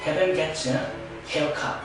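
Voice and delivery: "Having gets" run together as "havin gettis", h of his dropped; linked weak H. Shown as a demonstration. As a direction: link "Having gets haircut" with the weak h sounds gone. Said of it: "이렇게 됩니다".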